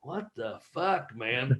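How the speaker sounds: slow, soft bewilderment to oneself; retold stunned muttering. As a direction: let it out slowly under the breath. Retold muttering alone on bench.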